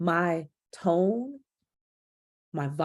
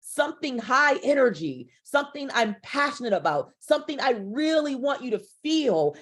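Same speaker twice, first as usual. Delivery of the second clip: raised pitch, pushing with passion; higher energy; 3 semitones higher than usual. Shown as a demonstration. Speaking coach showing the audience a high energy delivery. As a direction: lift the voice to show high energy. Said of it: "just like right now".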